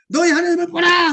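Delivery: loud, high call; loud preacher's cry; shouted proclamation. Shown as a demonstration. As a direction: proclaim it with all your voice. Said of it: "이 소리를 외치기를".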